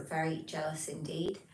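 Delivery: reads it in a soft unvoiced whisper; whispered chat line. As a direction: whisper the viewer's words like a secret. Reading a viewer's chat message.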